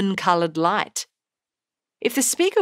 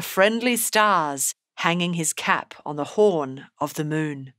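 poem reading. Acted. Reads the poem aloud.

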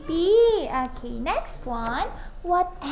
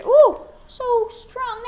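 excited praise; 8 semitones higher, 7 dB louder than usual. Real, not acted. Praising child's high five.

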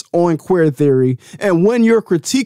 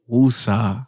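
calming exhale; 6 semitones lower than usual. Real, not acted. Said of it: "let me calm down".

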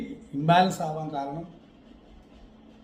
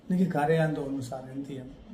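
soft, lower pleading student's question; mock student question; 4 semitones lower, 6 dB quieter than usual. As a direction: play the timid student asking the teacher. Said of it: "ആ ചോദ്യം വരുന്നത്". (ശിഷ്യന്റെ മൃദുവായ ചോദ്യം അനുകരിച്ച്)

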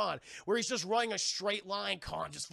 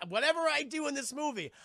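laughing; 4 semitones higher, 4 dB louder than usual. Retold or imitated. Samuel Jackson quote, laughing.

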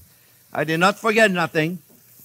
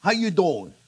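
jokey New York greeting; lightly put-on New York accent; slower than usual. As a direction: try to pass as a New Yorker. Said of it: "I could pass from New York".

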